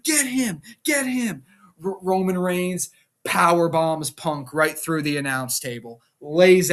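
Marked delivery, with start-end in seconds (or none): 0.0-1.4 high-pitched imitated goading; mock urging. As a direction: egg him on in an acted wrestler voice. Wrestler egging on another, acted.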